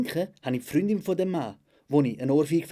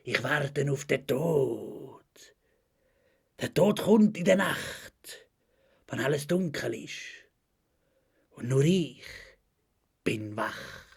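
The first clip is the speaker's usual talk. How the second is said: slow, hammed-up doom poetry with long pauses; dramatic poem recital; much slower than usual. Reciting friend Melita's poem about death, hammed-up recital. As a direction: wail the first word, then intone each line gravely. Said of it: "und das geht so".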